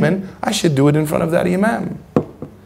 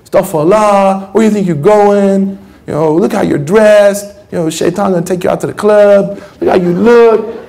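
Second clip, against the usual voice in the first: scolding man; 4 semitones higher, 3 dB louder than usual. Retold or imitated. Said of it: "stopped her at the door of the mosque and said".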